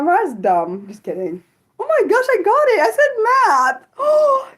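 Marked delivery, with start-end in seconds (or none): 1.8-4.0 high, loud squeal of triumph; thrilled. Real, not acted. Streamer guessed the viewer studies math, thrilled squeal. 4.0-4.5 high, loud gasped oh; excited gasp. Real, not acted. Streamer delighted by a math student, excited gasp. Thrilled gasp at a correct guess.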